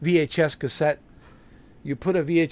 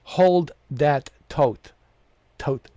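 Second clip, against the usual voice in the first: slow mock of the voice line; 3 dB louder, much slower than usual. Streamer mimicking the game character's line, slowly. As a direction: drag out hold that tote slowly.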